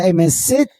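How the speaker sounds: lightly voiced stern cop; cop's order. Retold cop ordering him to sit.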